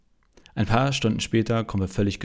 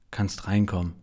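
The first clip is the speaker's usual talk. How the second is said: choked voice; 3 dB quieter than usual. Acted. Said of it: "mit belegter Stimme".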